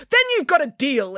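high, delighted acceptance; excited exclamation; exclaiming. A narrator's reading. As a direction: seal the deal brightly, pitch up. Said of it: "exclaimed Nanny Piggins".

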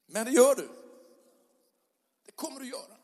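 punchy loud reply; firm declaration. Real, not acted. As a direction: hit it hard and sure. Preacher answers the complaint.

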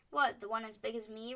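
loud, astonished question; the boy marvels at the size; amazed boy. A narrator's reading. The boy asking about the giant turkey, loudly amazed. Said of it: "returned the boy".

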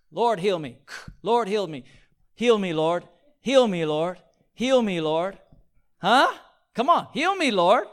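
loud, high, begging "heal me, Lord" over and over; hammed-up frantic begging; mock pleading prayer. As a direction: act out a desperate, hollow plea. Mock desperate prayer without repentance.

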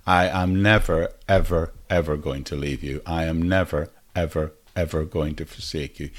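measured stress on "never, ever, ever"; emphatic repetition. Acted. Preacher putting God's promise in today's words, emphatic. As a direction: set "never" and each "ever" apart, deliberately. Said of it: "to make it really emphatic".

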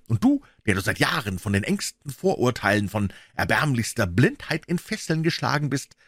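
a hint of a gloating madman; understated frenzied reveal; triumphant tirade.

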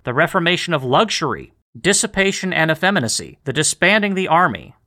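measured, declaimed list of demands; formal letter reading. Acted. Host reading an old political letter to podcast listeners, declaiming. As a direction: read each item out with deliberate weight.

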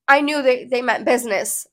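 plain reading voice

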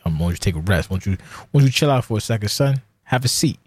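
mock TV host calmly telling someone to sit, pitch rising; a light nod to the take-a-seat host; Chris Hansen catchphrase. Telling his partner to rest, in a mock TV host voice. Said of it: "Non-Chris Hansen, obviously".

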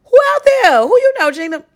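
mock shout into the crowd; imitating herself calling out. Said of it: "I'm like".

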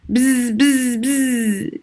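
soft airplane buzz; buzzing whisper. A narrator's reading. Little boy playing airplane, whispered buzzing. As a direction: hum like a toy plane. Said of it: "Dino whispered".

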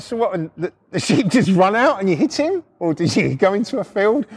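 high-pitched, imitating a giggling mate; imitated giggly questioning. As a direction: keep asking while fighting the giggles. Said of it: "just had the giggles".

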